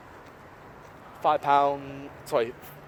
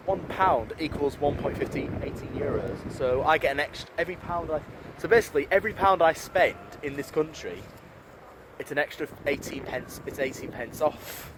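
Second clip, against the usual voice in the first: tipsy. Real, not acted. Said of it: "Sorry, I'm a bit tipsy".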